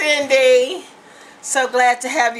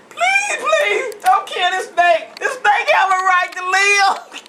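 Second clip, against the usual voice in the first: put-on pleading girl; 6 semitones higher, slower than usual. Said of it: "She went outside".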